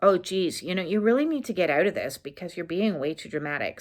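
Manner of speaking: a hint of a dismissive inner critic. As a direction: sigh it out like a nagging critic. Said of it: "your inner critic going".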